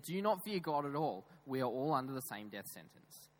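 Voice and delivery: imitated reproach, easing off after the question; rebuke. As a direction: tell him off, starting high and loud. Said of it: "rebuked the first thief".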